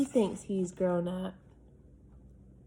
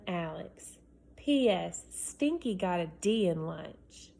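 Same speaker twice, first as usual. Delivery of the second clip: put-on higher, pleading kid voice, words stretched; eager boy; 4 semitones higher, 3 dB louder, slower than usual. Boy writing to his dad, higher and pleading. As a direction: sell it like a boy begging for a room. Reads Alex's letter aloud.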